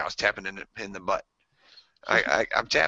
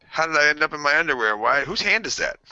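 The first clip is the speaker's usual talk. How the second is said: higher-pitched baffled waking voice; mock bewilderment; 6 semitones higher, 3 dB louder than usual. Comic waking up in underwear, mock bewilderment. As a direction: act out a puzzled panic.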